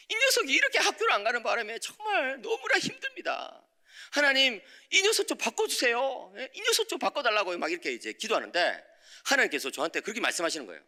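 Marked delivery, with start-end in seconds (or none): 0.1-7.6 high, laughing plea to God; pleading prayer. Retold or imitated. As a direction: beg God half laughing.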